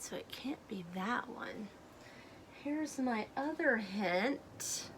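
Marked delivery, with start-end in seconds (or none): 0.0-1.7 soft whisper to the class; hushed teacher aside. Real, not acted. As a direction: let them in on a little secret, whispered. Teacher's aside to young listeners.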